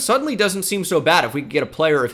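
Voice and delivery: energetic, nearly yelling with interest; real excited loudness. Real, not acted. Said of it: "I feel like I'm screaming".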